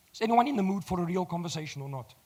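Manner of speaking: hoarse, croaky voice. Real, not acted. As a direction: speak through a croaky throat. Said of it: "Even with my croaky voice".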